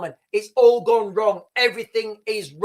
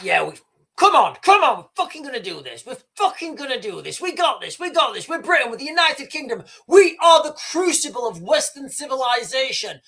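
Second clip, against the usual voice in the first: pumped-up cheer; 4 semitones higher, 3 dB louder than usual. Retold or imitated. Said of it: "I was like".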